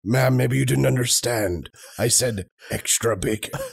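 Liam Neeson voice. Retold or imitated. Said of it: "Liam Neeson's gravelly voice".

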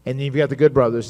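ordinary talk

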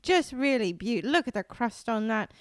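mock British judge admiring a bake. British judge praising the crust, gushing British accent. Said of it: "And they're like".

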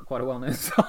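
laughing. Real, not acted. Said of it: "laughing while saying it".

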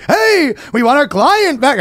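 lightly voiced Jewish lawyer. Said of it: "the Jewish voice".

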